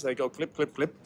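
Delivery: soft spoken clip clip of tap shoes; shoe clicks. Pretend. Character explains his noisy dancing shoes, with soft clip sounds. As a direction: quietly mimic clicking dance shoes. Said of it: "shoes that make lots of noise".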